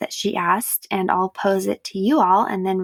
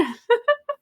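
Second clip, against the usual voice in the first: yawn sound. Real, not acted. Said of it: "so excuse my yawn".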